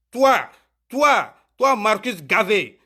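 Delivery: real angry call-out at rival callers. Real, not acted. Angry rant insulting rival callers.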